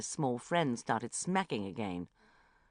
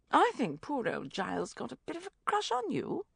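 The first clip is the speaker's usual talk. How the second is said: wry; 10 semitones higher than usual. A narrator's reading. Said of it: "she said wryly".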